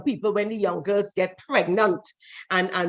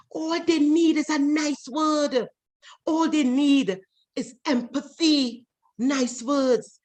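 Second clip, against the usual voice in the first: slow, high, stressed plea; slow emphatic; 5 semitones higher, slower than usual. Real, not acted. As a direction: slowly lay out the point.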